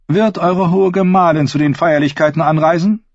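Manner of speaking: high, cold, haughty queen; evil queen. Acted. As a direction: sneer down at him as queen. Cersei voiced in reading.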